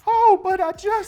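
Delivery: high, timid little voice; meek Janet voice. Acted. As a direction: squeak it out meekly.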